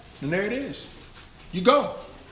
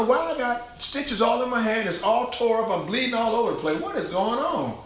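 higher-pitched, mock-baffled whining question; bewildered complaint; 7 semitones higher than usual. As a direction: act out the clueless complainer. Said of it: "And you wonder".

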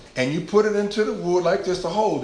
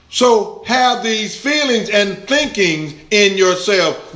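emphatic preaching; 4 semitones higher, 6 dB louder than usual. Real, not acted. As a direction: hammer each key word to the congregation.

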